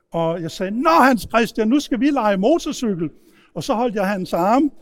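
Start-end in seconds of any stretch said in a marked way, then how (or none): 0.8-3.1 loud, higher, gleeful big-brother taunt; boisterous teasing. Retold or imitated. Teenager pinning down his little brother, boisterous and teasing. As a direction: announce a rough game with loud relish.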